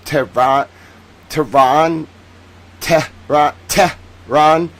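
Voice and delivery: Tehran broken into "Teh" and "rahn"; careful, halting "Teh... rahn"; phonetic sounding-out. Shown as a demonstration. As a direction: practise "Tehran" slowly, syllable by syllable. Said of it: "how to phonetically pronounce".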